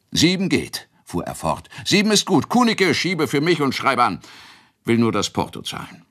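hoch und laut, schwungvoll; aufgeregt. Acted. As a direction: Ratschek voller Eile und Freude, am Ende schneller. Ratschek in Hochstimmung. (Wirt freut sich über den Wurf, aufgekratzt)

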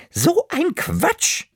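hohe Omastimme, langsam und gerührt; liebevolle Oma. Acted. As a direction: sag es, während du das Kind fest umarmst. Oma kommt versöhnt zurück. (Oma, langsam und zärtlich)

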